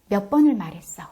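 loud exasperated question; exasperated scold. Shown as a demonstration. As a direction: snap it like a tired parent. Mom's nagging line.

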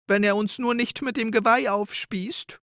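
high, timid little doe whimper. A narrator's reading. Frightened little sister Rike whimpers to Ulla, high and timid. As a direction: whine it out in fear. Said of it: "jammerte Rike".

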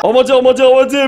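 high, breathless-with-joy repetition; overwhelmed excitement. Real, not acted. Player just pulled a rare card, overwhelmed and high-pitched. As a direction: repeat it high in disbelief.

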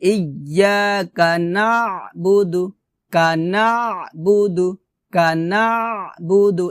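নাবুদু with throaty ayn and brief final দু; recited নাবুদু, short ending; correct short DU. Shown as a demonstration. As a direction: squeeze the না, keep the last vowel of নাবুদু short. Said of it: "এভাবে".

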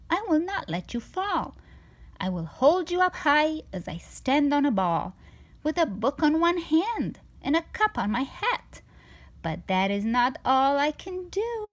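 a sly cat brushing off all worry; cheerful cat. Acted. The cat boasts.

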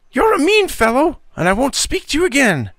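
put-on high, loud, indignant boy's outburst; vociferating. A narrator's reading. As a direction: hurl it at him, offended and loud. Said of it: "vociferated Jeff".

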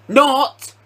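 sudden high punched word; sarcastic retraction. Real, not acted. Gamer mocking the game for freezing, high sarcastic jab.

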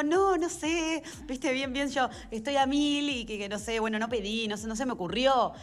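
high, flustered self-quote; flustered excuses. Retold or imitated. Actress retelling her excuses to a friend, flustered.

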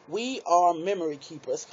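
laughing through the words as it clicks; sheepish laughing aha moment; laughing realization. Real, not acted. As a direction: giggle at your own slowness. Realizes what the letters mean.

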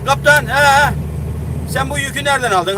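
mock the nosy driver asking where you got the load; retold other driver. Other driver questioning him, retold.

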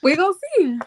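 under-the-breath whisper. Real, not acted. Stream guest whispering her doubt about the cash offer. Skeptical reply about sending money.

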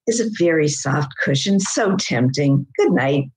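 a hint of a cat drifting off; drowsy cat. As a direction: wind down like a cat settling to nap. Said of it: "this is in the voice of the cat".

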